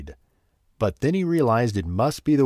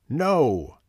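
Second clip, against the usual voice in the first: shout; 4 semitones higher than usual. Acted. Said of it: "the man shouted".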